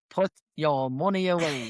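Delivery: slow, badly faked Navan accent. Shopper to film star in Navan Tesco, bad Navan accent. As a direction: drag it out in a poor Navan accent. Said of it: "the worst Navan accent ever".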